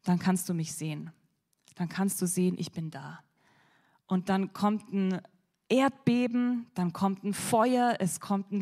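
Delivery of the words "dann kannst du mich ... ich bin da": gentle voice of God. Acted. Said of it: "Und Gott sagt, ja, zu ihm".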